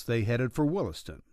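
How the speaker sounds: ordinary delivery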